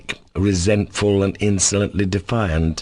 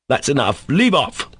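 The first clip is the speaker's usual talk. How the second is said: peremptory; 6 semitones higher than usual. Acted. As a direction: Leave off snapped high. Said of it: "Ivan said peremptorily".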